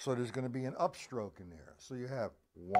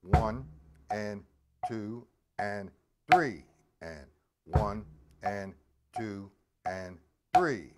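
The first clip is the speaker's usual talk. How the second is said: counting eighth notes; 4 semitones lower, 5 dB louder, slower than usual. Shown as a demonstration. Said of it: "So now we have the five stroke rough".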